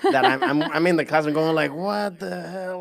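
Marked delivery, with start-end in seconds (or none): 1.7-2.8 shocked. Retold or imitated. Hearing own accent on tape.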